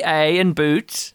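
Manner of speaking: slow, drawn-out Canadian A and boot; mock Canadian. Shown as a demonstration. Teasing the Canadian guest in a slow mock Canadian accent. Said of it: "Now you just have to".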